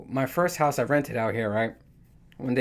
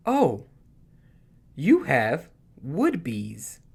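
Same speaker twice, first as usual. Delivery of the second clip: coworker voice; much slower than usual. Retold or imitated. Coworker voiced matter-of-fact.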